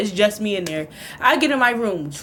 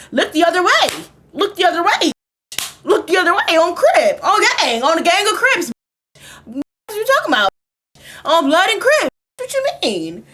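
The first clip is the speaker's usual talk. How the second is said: mom ranting; 5 semitones higher, 3 dB louder than usual. Retold or imitated. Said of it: "My mama over here like".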